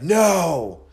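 loud refusal. Retold or imitated. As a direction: shout it flat out. Drunk friend refusing to wait.

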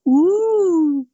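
sudden very high whoop; party whoop. Retold or imitated. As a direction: let out a wild party cheer. Party cheer quoted from film.

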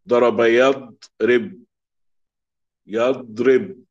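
يضرب said slowly and firmly; slow model reading. Shown as a demonstration. Teacher modelling ضرب يضرب slowly. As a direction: drag out ضرب يضرب for the class. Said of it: "الثلاثي فتح الأول".

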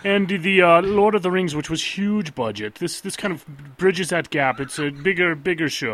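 slow New Zealand accent impression. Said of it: "my New Zealand accent".

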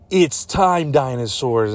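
slow, weighty movie line; mock-dramatic reveal. Time traveler revealing the threat to hero, mock-dramatic. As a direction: spell it out with mock gravity.

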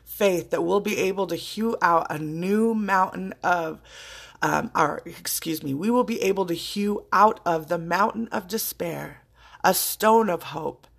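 reading a famous speech aloud, measured; quoting a speech. Acted. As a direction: recite the words with reverence. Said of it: "and I quote".

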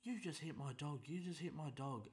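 high, whiny mock old-lady voice. Old woman confronts him.

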